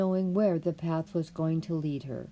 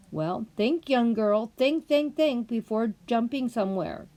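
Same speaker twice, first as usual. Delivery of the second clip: lecturing rabbit; 4 semitones higher, 4 dB louder than usual. Acted.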